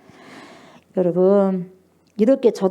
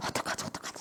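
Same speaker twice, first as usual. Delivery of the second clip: anxious; 17 dB quieter, much faster than usual. Retold or imitated. King's anxious fear, retold.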